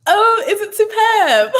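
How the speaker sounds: high, laughing squeal of delight. Real, not acted. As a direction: squeak it out through real laughter. Viewer compliments, she cracks up.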